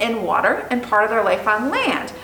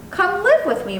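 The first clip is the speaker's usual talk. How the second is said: put-on boy's voice; 8 semitones higher than usual. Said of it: "Brian said".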